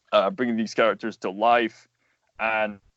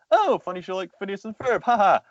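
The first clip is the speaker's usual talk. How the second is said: dismissive; 9 semitones higher than usual. Retold or imitated. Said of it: "I was like".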